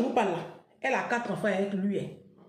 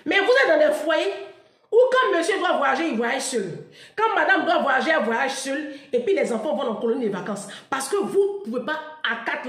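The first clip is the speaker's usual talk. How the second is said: loud preaching; 5 semitones higher, 7 dB louder than usual. Acted. Preaching to couples, laughing.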